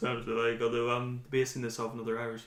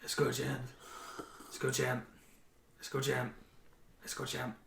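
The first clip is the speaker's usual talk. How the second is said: background heckle; 9 dB quieter than usual. Retold or imitated. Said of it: "all you could hear in the back".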